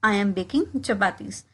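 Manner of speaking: slow, careful drill phrase; slowed classroom demo; slow model repetition. Shown as a demonstration. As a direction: say it slowly for learners to copy. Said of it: "इसको मैं कहूँगी".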